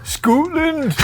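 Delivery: high-pitched cry in broad Scottish; mock Scottish accent. Asked for his Scottish accent by the co-host, mock Scottish shout. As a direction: shout the country's name as a hammed-up Scot. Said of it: "what's your Scottish accent then?".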